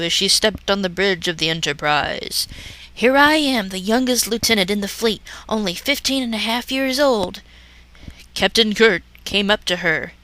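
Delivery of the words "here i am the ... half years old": gushing young ensign, lightly voiced; starry-eyed girl, hammed up; hammy stage actor. Mary Sue voiced in parody.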